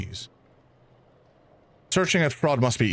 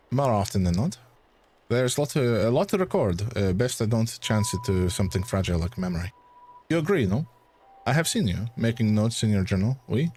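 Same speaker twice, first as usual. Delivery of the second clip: put-on light French accent, calm and sure; French-accented academic correcting him gently. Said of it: "it's gonna be a struggle for me to keep this accent".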